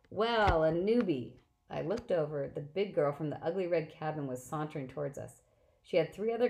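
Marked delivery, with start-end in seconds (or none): 0.1-1.4 loud, jeering call; mock yell. Clarice calling out to mock the newcomer, loud jeering yell. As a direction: yell it across the camp to taunt. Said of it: "a husky voice yelled".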